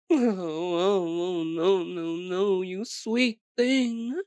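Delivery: patronizing coo, drawn out at the end; mock pity. Vampire correcting a naive rescuer, mockingly sweet. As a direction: pity them as a silly little pet. Mocks the would-be rescuer after laughing.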